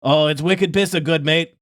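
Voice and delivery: a weak, half-hearted Boston accent; bad Boston accent. Shown as a demonstration. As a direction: try a Boston accent and miss. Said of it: "my Boston accent is not good".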